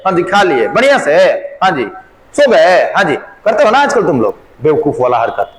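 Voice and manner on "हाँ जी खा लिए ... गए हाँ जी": lightly acted two-sided phone small talk; casual call-and-answer phone banter; mock phone chat. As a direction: play both ends of an idle phone call. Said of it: "telephone पे".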